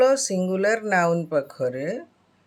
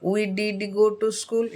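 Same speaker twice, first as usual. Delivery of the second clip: slow, leaning on did and go; slow emphatic drill; much slower than usual. Shown as a demonstration. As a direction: press on did go. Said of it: "emphatic sentence".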